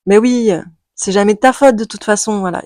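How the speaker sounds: mock her, dripping with sarcasm. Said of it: "je me moque un peu d'elle". (moqueuse, sarcastique, un peu plus haut et plus fort)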